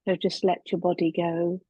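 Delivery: unhurried body scan guidance with long pauses; calm meditation teacher, measured and spacious; guided meditation. Real, not acted. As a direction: ease them gently into relaxation, leaving long silences.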